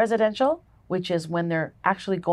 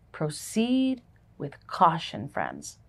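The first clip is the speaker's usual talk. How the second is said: gentle caution; 3 semitones lower, 6 dB quieter, slower than usual. Shown as a demonstration. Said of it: "I should say".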